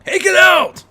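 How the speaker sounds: loud high shout at the intruder. Acted. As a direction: bark it out as the gang leader. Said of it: "the leader proclaimed".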